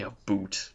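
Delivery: "a boot" as the mocked Canadian about; quoted Canadian pronunciation. Canadian denying he says "a boot" with oo. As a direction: echo "a boot" with an oo for ow. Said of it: "I don't say".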